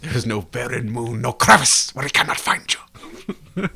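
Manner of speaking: theatrical threat, slowing into a whisper; villain's movie line. Acted. Fan performing the villain's line on request, creepy threat. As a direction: quote it as a creepy, drawn-out threat. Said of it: "You have to say the line".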